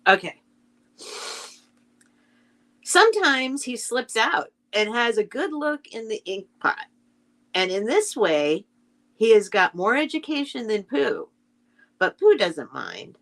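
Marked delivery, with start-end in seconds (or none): 2.8-13.2 calm storybook reading; story narration. A narrator's reading. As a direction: read it like a bedtime story to children. Keeps reading the introduction.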